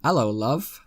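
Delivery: put-on smooth British charm; smooth British accent. Narrator whispers in her ear, smooth British accent. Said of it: "put on the smoothest British accent".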